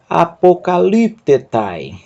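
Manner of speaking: slightly slowed, whole word joined. Shown as a demonstration. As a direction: read it through as one word. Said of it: "Eu vou ler com você".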